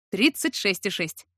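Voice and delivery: slow, triumphant declaration; solemn announcement. A narrator's reading. He announces thermometer reading to heroine, triumphantly solemn. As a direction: announce it grandly, drawn out. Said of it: "торжественно объявил он".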